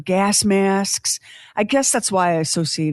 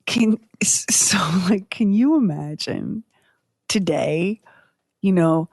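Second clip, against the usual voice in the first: whispering. Real, not acted. Conspiratorial aside to co-host.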